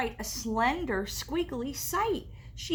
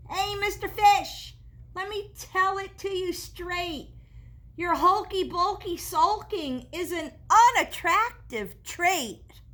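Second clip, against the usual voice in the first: blunt octopus; 5 semitones higher, 4 dB louder than usual. Acted. Octopus scolds the fish.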